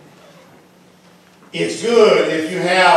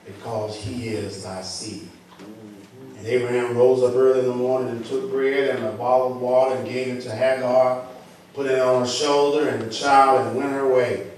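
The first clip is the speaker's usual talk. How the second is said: scripture reading, building. Acted. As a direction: start measured, gradually lift the scripture with force. Reads scripture, building in force.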